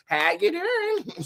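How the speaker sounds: high, slow sing-song hello; drawn-out greeting. Pretend. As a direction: stretch the greeting up high and playful. Greeting a viewer with put-on voice.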